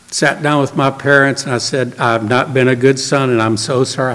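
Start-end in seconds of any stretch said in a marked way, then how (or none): 2.0-4.1 subdued, lower retelling of a tearful apology; understated contrition, low and quiet; tearful confession. Retold or imitated. Son confessing to his parents, mildly tearful. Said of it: "I think I had tears".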